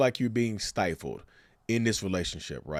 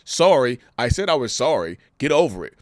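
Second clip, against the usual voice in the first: dismissive fake apology; 6 dB louder than usual. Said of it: "Not just".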